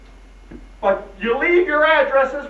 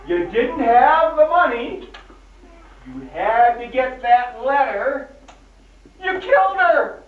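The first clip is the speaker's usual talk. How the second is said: accusing. Acted. Sheriff accuses the son of murder.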